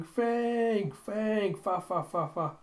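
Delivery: high, gleeful little voice calling; excited little Koyomi. Acted. Koyomi runs up to a dog, high excited calling. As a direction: squeal the dog's name, then babble it. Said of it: "Koyomi just running up and going".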